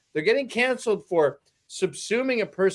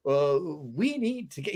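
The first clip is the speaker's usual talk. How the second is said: put-on Roger Stone accent; 4 semitones lower, 4 dB quieter than usual. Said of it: "he has a very distinct accent".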